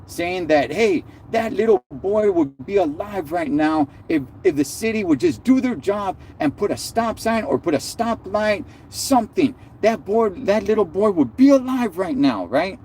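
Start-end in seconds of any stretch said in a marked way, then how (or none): 0.7-12.5 mock angry mothers. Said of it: "they're raising hell at City Hall".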